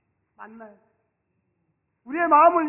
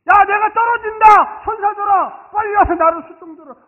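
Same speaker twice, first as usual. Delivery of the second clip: pretend call for angels; 8 semitones higher, 14 dB louder than usual. Preacher playing Jesus calling angels, loud cry. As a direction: shout to summon the angels.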